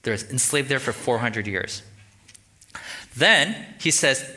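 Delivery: ordinary delivery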